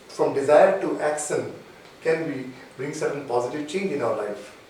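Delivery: slow, low recap, phrase by phrase. Real, not acted. Coach repeats four interesting points to the audience, very slowly. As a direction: repeat it slowly for note-takers. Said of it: "I repeat again very slowly".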